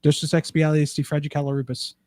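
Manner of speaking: the word said backwards, slowly; backwards speech. Shown as a demonstration. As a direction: sound it out in reverse, syllable by syllable. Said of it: "I can say it bas-, backwards".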